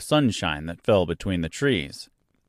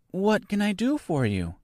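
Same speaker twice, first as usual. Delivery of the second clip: soft; 10 semitones higher, 3 dB quieter than usual. Acted. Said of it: "she inquired softly".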